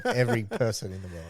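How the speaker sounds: said through a chuckle; correcting himself mid-laugh, amused. Real, not acted. Laughing through his own correction to his mates.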